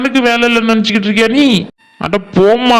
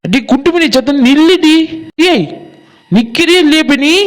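higher-pitched call to halt; 4 semitones higher than usual. Acted. Friend ordering Gundumani to stop walking home, calling out.

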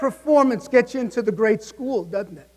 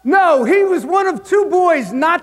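slow, louder punchline; deadpan punchline; 8 semitones higher, 7 dB louder than usual. Retold or imitated. Mr Kirby reveals the arrests, slow loud punchline. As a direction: land the reveal slowly. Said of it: "Kirby's punchline reply".

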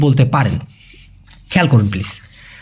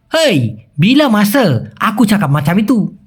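mock angry Malay retort; slower than usual. Shown as a demonstration. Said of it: "রেগে গেলে".

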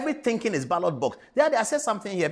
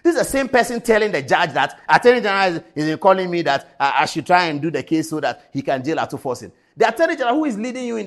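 indignant; 3 semitones lower, 6 dB louder than usual. Real, not acted. Outraged at the man's double-dealing.

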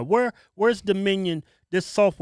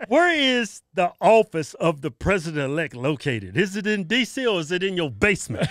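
laughing mockery; 3 dB louder than usual. Real, not acted. Mocking Biden's title, laughing.

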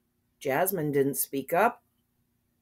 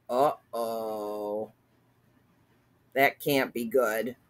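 ominous aside; 6 semitones lower, slower than usual. Real, not acted. Reader's worried aside on story.

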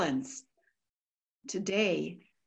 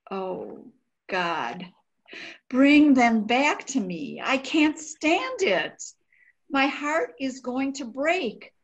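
anguished prayer; 4 semitones higher than usual. Acted. Diarist begging God for her family, anguished plea. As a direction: beg God through the pain.

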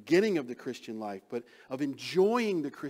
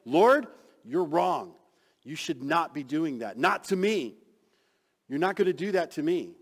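bold protest; 3 semitones higher, 8 dB louder than usual. Acted. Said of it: "Peter is bold enough to correct the Lord".

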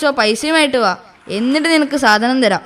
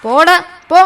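louder, higher, harsh get-lost; loud brush-off; 4 semitones higher, 6 dB louder than usual. Acted. Dealer to begging addict, loudly telling him to get lost. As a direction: shove him off with your voice.

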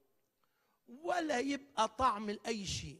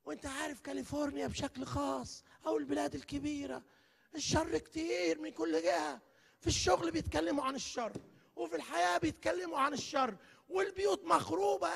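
lightly voiced grumbling man, a bit higher; complaining listener; 5 semitones higher than usual. Preacher imitating a man complaining about the world, a touch whiny. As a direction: mimic a worried congregant, mildly whiny. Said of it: "واحد يقول لي".

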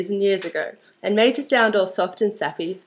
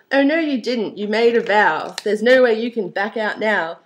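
story narration. A narrator's reading. Reading a comic Cinderella poem aloud, animated storytelling. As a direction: read the rhyme out with bouncy expression. Continues reading the rhyming tale.

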